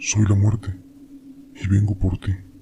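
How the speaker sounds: deep put-on voice. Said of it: "Con una voz profunda me dice".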